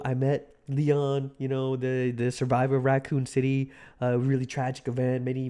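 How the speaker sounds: lightly voiced Trump, low and soft, rambling; a hint of Trump, meandering and hushed; Trump impression. Streamer doing Trump for chat, lightly voiced. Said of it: "that was my Trump impression".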